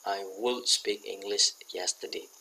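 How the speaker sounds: slow, spaced words; slow model sentence. Shown as a demonstration. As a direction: read it out slowly for students. (dibaca pelan sebagai contoh)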